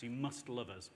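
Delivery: "must" punched out as the prominent word; stress on must. Retold or imitated. Industry insisting to the public, stress on "must". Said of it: "emphasis on must".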